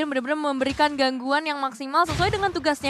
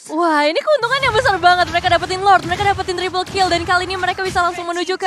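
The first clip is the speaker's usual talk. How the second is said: excited; 2 semitones higher, 5 dB louder than usual. Real, not acted. Caster reacting to Lord taken.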